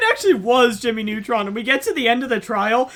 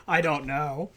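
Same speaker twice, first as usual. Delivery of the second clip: lower, quieter mock Russian accent; 8 semitones lower, 9 dB quieter, slower than usual. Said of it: "Get your Russian accent out".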